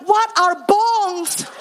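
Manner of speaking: high, slow, drawn-out bewilderment; comic acted confusion; baffled question. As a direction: ask it utterly clueless, stretching the words. Clueless pastor asks the meaning.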